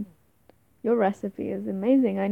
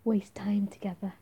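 whisper. Acted. Intimate roleplay, whispered aside.

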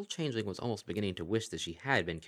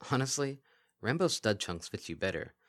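dull flat voice; 4 semitones higher than usual. Acted. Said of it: "said in a dull, flat voice".

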